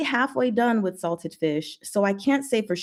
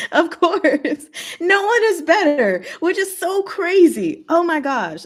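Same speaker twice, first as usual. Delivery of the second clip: much higher, a bit louder; excited, pitched-up gushing; gleeful agreement; 9 semitones higher, 3 dB louder than usual. Real, not acted. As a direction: gush in agreement. Everyone agreeing on Sujo.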